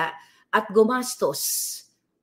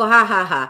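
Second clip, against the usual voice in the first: retold laugh; 7 dB louder than usual. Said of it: "Natawa ako".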